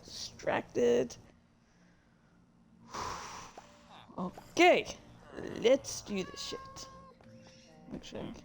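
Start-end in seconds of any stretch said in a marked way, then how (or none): 4.2-6.9 much higher, gleeful rally cry; hype-up. Real, not acted. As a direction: fire yourself up to get going. Hyping herself to start reading.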